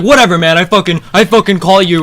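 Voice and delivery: hammed-up exasperated outburst; mock angry retort. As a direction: throw it out like a fed-up poker player. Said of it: "he gets so mad".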